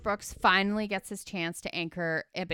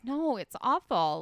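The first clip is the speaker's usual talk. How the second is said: slow, earnest and higher; fully serious; 5 semitones higher, 3 dB louder, slower than usual. Retold or imitated. Producer answering the sarcastic anchor, dead serious. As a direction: say it dead serious, as if it truly pains her. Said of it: "She's, like, fully serious".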